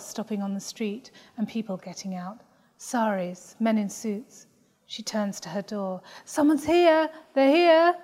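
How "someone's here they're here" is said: high, loud excited announcement; excited call. Acted. Daughter calling out to the family that guests have arrived, loud and excited. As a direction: call it out to the house, thrilled.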